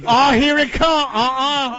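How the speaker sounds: high shrill shouts; yelling at the screen. Pretend. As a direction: holler at the movie screen. Mock moviegoers yelling at screen.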